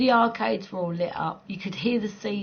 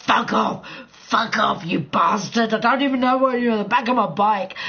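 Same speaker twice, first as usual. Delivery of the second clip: put-on childish gamer voice. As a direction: whine like a little kid on a game. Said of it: "I was going".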